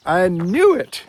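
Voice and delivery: a hint of her amused certainty; woman's voice. Retelling the woman's reply.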